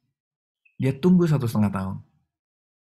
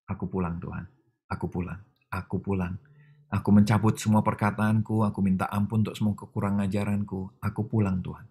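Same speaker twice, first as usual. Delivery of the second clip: tearful surrender; 2 semitones lower than usual. Retold or imitated. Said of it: "saya di mobil tiba-tiba nangis". (berbisik menangis, menyerah kepada Tuhan)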